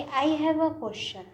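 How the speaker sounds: I have a question said slowly and clearly; teacher modelling the correct sentence; slow model answer. Shown as a demonstration. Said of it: "सही क्या".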